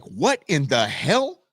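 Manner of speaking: very high, squeaky, stretched puzzlement; cartoon dog asking what just happened; confused dog voice. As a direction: squeak it like a baffled little dog. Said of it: "he looked at the street like".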